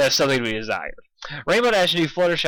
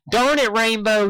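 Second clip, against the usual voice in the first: loud high yell; 9 semitones higher, 4 dB louder than usual. A narrator's reading. Applejack yelling at Rainbow, loud. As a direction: shout at her. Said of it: "yelled Applejack".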